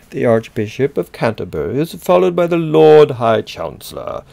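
loud, pompous British reading; mock British accent. Lecturer reading Whitaker's order of precedence to students, mock British accent. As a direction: declaim it like a grand British official.

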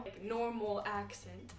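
slow American English accent, demonstrated. Shown as a demonstration. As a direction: show an everyday American accent, slowly. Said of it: "yo tengo acento de inglés americano".

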